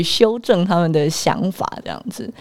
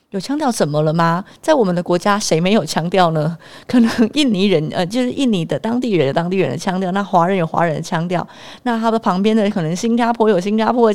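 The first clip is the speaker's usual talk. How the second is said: put-on louder, fired-up defiance about accents; indignant louder retort; 5 dB louder than usual. Wife protesting the teacher's view, louder and defiant. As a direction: push back hard, louder and defiant, at times quicker.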